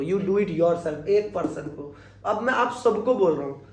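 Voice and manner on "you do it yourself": slow model sentence. Shown as a demonstration. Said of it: "एक बंदे को बोला था मैंने".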